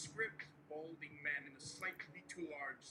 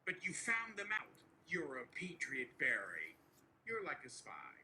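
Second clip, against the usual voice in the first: Donald Trump impression. Trump to nervous aide Barry, boastful and coaxing. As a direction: reassure Barry like Trump spinning a win.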